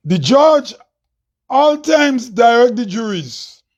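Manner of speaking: measured spoken-word delivery, line by line with long pauses; declaimed poem, key phrases lifted; poem recital. Acted. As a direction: recite each line deliberately, leaving space after it.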